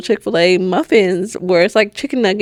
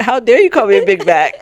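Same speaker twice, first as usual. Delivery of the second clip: laughing; 3 dB louder than usual. Retold or imitated. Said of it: "we just both start laughing".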